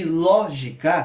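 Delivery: "lógica" slowly split, LÓ standing out; LÓ, gi, ca in separate beats; stressed syllable demo. Shown as a demonstration. Teacher classifying the word, slow split with stressed LÓ. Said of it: "ló é a sílaba tônica".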